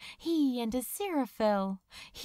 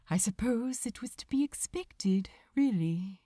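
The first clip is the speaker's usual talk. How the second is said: breathy whispered resignation; soft whisper. Acted. Angel to his lover as the storm nears, whispered. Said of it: "he said softly".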